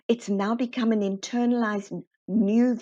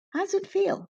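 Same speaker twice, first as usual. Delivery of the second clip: high-pitched eager question, far from his own voice; excited high question; 11 semitones higher than usual. Retold or imitated. Retelling how the colleague asked her, in an eager high voice. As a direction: ask it up high like a thrilled friend.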